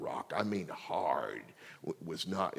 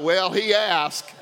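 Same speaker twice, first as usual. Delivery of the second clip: slow mock shrug; 10 semitones higher, 10 dB louder, slower than usual. Mock reasoning, comic.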